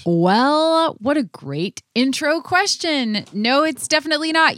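excited. Real, not acted. Playful enthusiastic answer.

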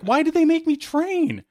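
very high, stretched-out mock whine; slow, exaggerated retold complaint; Mark Hamill. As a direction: wail it like a put-upon actor. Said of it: "Quit your bitching".

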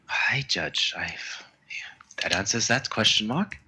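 whispering. Real, not acted. Player murmurs while noting.

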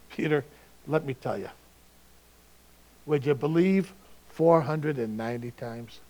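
gently amused, arm around a friend; chuckling Jesus. Retold or imitated. Jesus chuckling as he answers Peter, lightly voiced and casual. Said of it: "having this chuckle in his voice".

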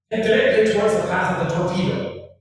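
lightly imitated Scottish-Russian accent of a submarine captain; a captain's order in a hint of a Scottish-Russian accent; Sean Connery Scottish-Russian accent. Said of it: "speaking with a Scottish-Russian accent".

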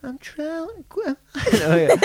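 high put-on Australian singing voice, hammed up; Australian accent. Attempting an Australian accent for his podcast co-host. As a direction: camp Australian pop singer take. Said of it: "I can do an accent".

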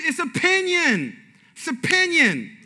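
slow, deliberate, leaning on opinion; slow emphasis. Shown as a demonstration. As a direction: spell it out slowly for the congregation. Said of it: "I'm trying to be really clear here".

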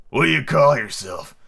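slow, sweet storybook creature voice; soft, sweet fawn. A narrator's reading. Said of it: "had a soft, sweet voice".

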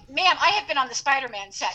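giggling through a fake brag; joking name-drop to the shopkeeper; laughing pretend brag; laughing mock boast. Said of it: "I'm like".

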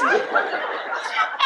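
breathy high burst of laughter; laughing. Real, not acted. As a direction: laugh out at your own punchline. Bursting into laughter at own punchline.

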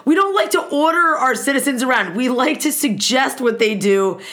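politely suggesting, with a mocking lilt; mock Swedish officials. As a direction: gently parody a permissive government. Mocking Sweden's hands-off government.

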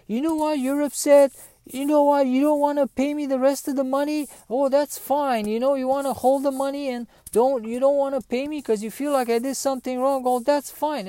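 high-pitched imitation of an indignant contractor; retold huffy protest in a high voice; huffy, offended. Retold contractor offended in money quarrel.

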